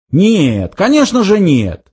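brushing it off, pitch swinging up; indignant denial. A narrator's reading. Zaphod denies visiting the little planet, indignant. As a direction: wave the idea away, affronted. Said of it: "негодующе отмахнулся Зафот".

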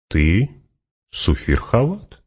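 slow, mild reminder rising at the end; calm. A narrator's reading. Fremen reminds Hawat who he is, calm. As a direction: remind him evenly and unhurriedly. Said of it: "спокойно напомнил Фриман".

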